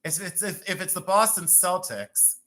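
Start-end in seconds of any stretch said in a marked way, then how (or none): 1.0-2.4 "Celtics" as SEL-tiks; S sound at the start of "Celtics"; soft-C pronunciation. Shown as a demonstration. Seller puzzling over the team, "Celtics" with an S. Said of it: "why don't you say Celtic".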